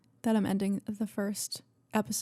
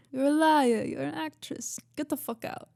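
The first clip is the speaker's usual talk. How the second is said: higher put-on quarrel voice, shouted then hissed; higher mock accusation, falling to a hiss; iconic quote; 6 semitones higher than usual. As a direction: mimic the show's famous fight line. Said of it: "that iconic".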